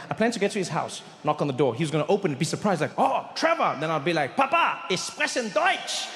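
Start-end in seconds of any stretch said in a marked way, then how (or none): 3.0-3.8 a touch of a delighted dad, higher; dad happily surprised at the door; imagined surprised dad. Pretend. Dad opening the door to his son, lightly surprised. 4.4-6.1 high, slow, proud little announcement; proud German line. Pretend. Son showing off German to his dad, high and slow.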